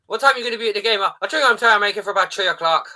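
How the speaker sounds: lively put-on Irish voice; Irish accent. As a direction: act out a chat in an Irish accent. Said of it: "I don't know why in Ireland".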